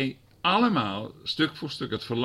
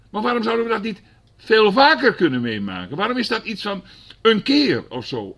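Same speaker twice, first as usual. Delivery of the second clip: raised, urgent pulpit voice; fervent preaching; 10 semitones higher, 7 dB louder than usual. Real, not acted. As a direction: press the question on the congregation. Preaching at full force.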